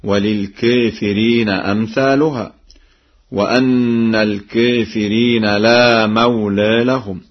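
chanted, aa in "الكافرين" tilted toward e; taqlil. Shown as a demonstration. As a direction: recite "الكافرين" as al-keefireen. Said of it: "مما هو معروف من تقليل".

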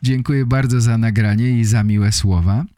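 ordinary talk, nothing marked

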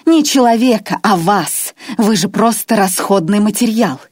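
high, loud outburst; shouted in his face. Acted. Irma screams at her captive Grois, furious. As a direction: yell it straight at him. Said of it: "выкрикнула эти слова ему в лицо".

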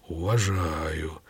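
slow, low and softened respect; low, slow, earnest approval; sincere respect. A narrator's reading. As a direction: draw the word out in sincere appreciation. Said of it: "искренне покачал головой Легайда".

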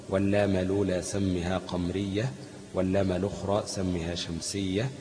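measured, slow chant of a teaching poem; verse recitation. Acted. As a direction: recite the mnemonic poem line by line. (تلاوة متن شعري بتأنٍّ)

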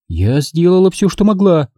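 high-pitched hurt society lady; Mrs Kane, high and offended. A narrator's reading. Mrs Kane to Engel, high and injured. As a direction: she sounds wounded that no one thanks her.

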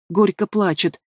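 ordinary delivery, nothing marked

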